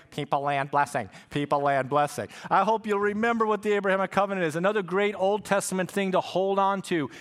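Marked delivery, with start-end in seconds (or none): 0.1-2.3 lightly mocking his own drone; a sing-song reminder, a little lower; annoying preacher voice. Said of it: "you will hear my annoying voice saying".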